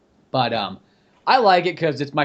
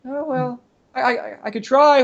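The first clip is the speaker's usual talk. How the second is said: high, put-on voice of an unsure amateur; mock hesitant volunteer; 11 semitones higher, slower than usual. Bob agrees to attempt a French accent, hesitant high mock voice. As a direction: stammer into it in a silly high pitch.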